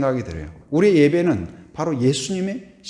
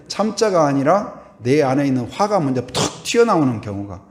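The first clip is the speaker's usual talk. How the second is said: usual speaking voice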